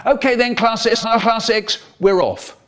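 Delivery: high, bright call to the class; teacher calling the class. Retold or imitated. Teacher calling class six to go.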